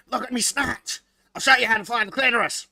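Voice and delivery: slimy slug lady voice, lightly done. Acted. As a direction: ooze it out like a slug creature. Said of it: "the slug lady voice".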